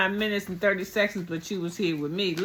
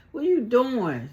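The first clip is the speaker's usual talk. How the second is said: louder, high-pitched mock demand; imitated confrontation, raised and emphatic; insistent challenge; 6 semitones higher, 5 dB louder, slower than usual. Repeated, louder retold challenge.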